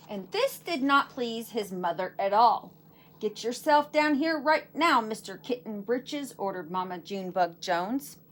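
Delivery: lively read-aloud storytelling voice; story narration for children. A narrator's reading. Teacher reading a picture book to her class, lively narration.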